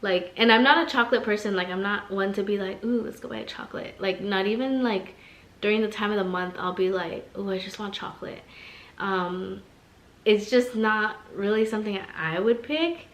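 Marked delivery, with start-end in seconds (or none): 2.8-3.9 mock craving. 7.4-8.4 soft craving. Retold or imitated. Mock craving voice.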